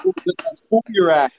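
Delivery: lightly hammed old coach asking slowly; Lou impression. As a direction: drawl it out to needle the newcomer. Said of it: "he goes".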